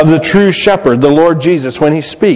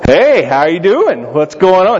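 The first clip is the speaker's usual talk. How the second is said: lightly acted casual, chummy hello; breezy re-enacted greeting to a girlfriend; friendly phone greeting; 3 semitones higher than usual. Caller greeting who he thinks is his girlfriend on the phone, friendly.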